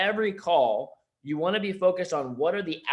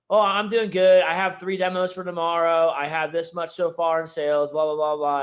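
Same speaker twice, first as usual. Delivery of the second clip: upbeat sales rep; 3 semitones higher, 6 dB louder than usual. Retold or imitated. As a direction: burst out cheerfully with your sales stats. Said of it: "And they'll go".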